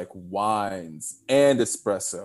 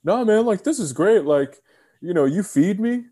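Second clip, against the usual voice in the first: earnest, much higher gratitude; genuine thanks; 9 semitones higher, 4 dB louder than usual. Retold or imitated. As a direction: thank them with total sincerity. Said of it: "I was so genuine in saying".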